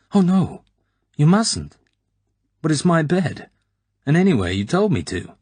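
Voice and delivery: put-on high, loud, flustered girl's voice; a blushing young woman protesting, pitched high. A narrator's reading. Blushing girl protests Bond is in her bed, flustered high voice.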